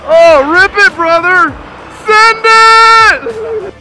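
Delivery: loud hyped cheer; frat bro. Real, not acted. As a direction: shout it like a stoked bro. Cheering the engine rev.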